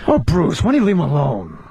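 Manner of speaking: low, lightly voiced actress impression; Demi Moore. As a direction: pitch it down as the star's partner. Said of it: "Bruce Willis and Demi Moore".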